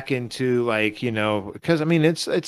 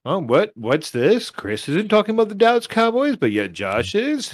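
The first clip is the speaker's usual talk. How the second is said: put-on Texas accent; 3 semitones higher than usual. Podcaster announcing his Cowboys pick, hammed-up Texas accent. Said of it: "Does it sound like a Texas accent".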